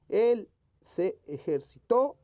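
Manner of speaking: Él hit loud, ejercitó with a high final TÓ; ejercitó drawn out and stressed on TÓ; stress on key syllables. Shown as a demonstration. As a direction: slowly punch Él and the end of ejercitó. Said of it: "que esté correctamente escrita".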